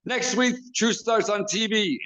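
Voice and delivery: high, excited imitation of a booker shouting orders; Jim Cornette impression. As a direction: play the boss calling someone over in disbelief. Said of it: "He goes".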